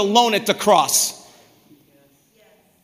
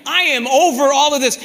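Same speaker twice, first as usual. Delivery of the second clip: fed-up prayer; 4 semitones higher than usual. Retold or imitated. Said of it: "How many times have we prayed that?".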